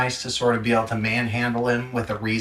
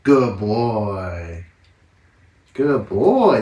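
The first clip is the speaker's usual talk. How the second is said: loud praise; 7 dB louder, much slower than usual. Real, not acted. Praising puppy loudly.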